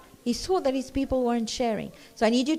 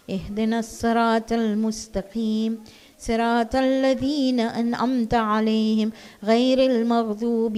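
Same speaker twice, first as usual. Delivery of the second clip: quick, steady recitation of the Fatiha in Arabic; Quran recitation; 5 dB louder, faster than usual. Acted. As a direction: recite it briskly in one flowing line.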